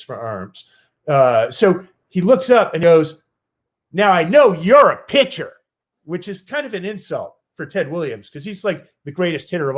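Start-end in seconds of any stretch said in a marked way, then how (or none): 3.9-5.5 put-on gruff old legend. Ted Williams sizes him up.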